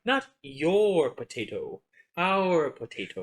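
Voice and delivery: slow, lightly put-on Soviet Russian accent; mock Russian accent. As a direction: draw it out like a Russian comrade. Joking as Soviet comrades share potato.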